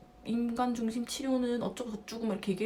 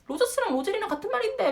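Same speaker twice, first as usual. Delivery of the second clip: much higher, mock-amused correction; imitated amused professor; 10 semitones higher, 3 dB louder, faster than usual. Professors laughing at the student's confusion, amused. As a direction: mimic a professor tickled by the mistake. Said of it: "막 이렇게 웃으시더니".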